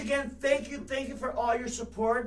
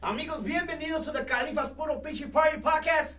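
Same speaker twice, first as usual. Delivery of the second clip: show opener; 3 semitones higher than usual. Shown as a demonstration. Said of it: "so let's start over".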